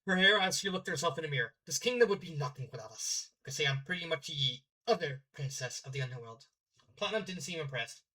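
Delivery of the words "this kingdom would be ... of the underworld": put-on Norse accent. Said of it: "doing the accent".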